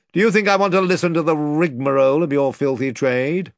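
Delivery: a touch of lordly contempt; scornful lord. Acted. The lord cutting off Pug's rigmarole, mildly scornful. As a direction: scorn the filthy trade.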